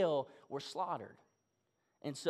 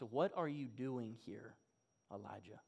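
still small voice; 9 semitones lower, 11 dB quieter than usual. Retold or imitated. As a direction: ask it gently, almost under the breath. God's quiet question in the cave.

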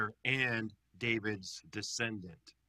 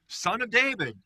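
louder, higher imitated crowd cry; crowd shout; 8 semitones higher, 7 dB louder than usual. People at the triumphal entry hailing Jesus, crowd shout. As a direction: call it out like a cheering crowd. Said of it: "what do people shout".

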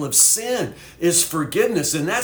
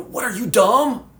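mocking; 5 semitones higher than usual. Teen mocking a friend on the church porch, mild scorn. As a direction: tease a friend, half-amused scorn. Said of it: "they just dog him".

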